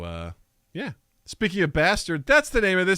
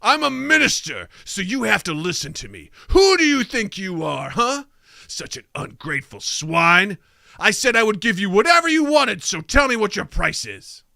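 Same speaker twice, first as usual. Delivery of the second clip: indignant minister; 4 semitones higher, 3 dB louder than usual. Acted. Minister angrily scolds sorcerer.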